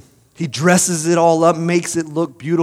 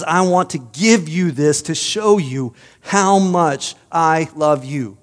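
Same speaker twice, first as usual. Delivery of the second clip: slow, tender offering, voice a little changed; tender gardener; slower than usual. Acted. Gardener offers the prince his carrot, slow and tender. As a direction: gently offer your gift to someone you love.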